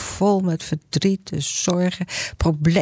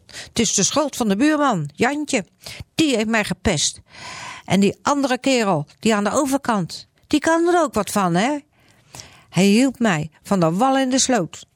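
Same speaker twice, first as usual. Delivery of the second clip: much higher, whiny complaining voice; blaming Grietje; 6 semitones higher than usual. Acted. Grietje blaming her neighbours, much higher and whiny. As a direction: whine and point at the neighbours. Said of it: "dat weet Grietje wel".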